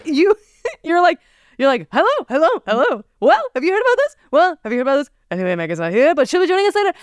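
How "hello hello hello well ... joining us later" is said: hammed-up nineties talk-show host patter; nineties late-night host. Teasing a partner about their podcast intro, late-night host impression. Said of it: "hosting a late night show".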